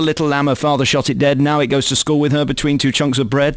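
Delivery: jokey sing-song rhyme, low-key; comic verse recital. Retold or imitated. Host offering a silly rhyme instead, mock recital. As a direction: rattle off a daft rhyme deadpan. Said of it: "I like your one".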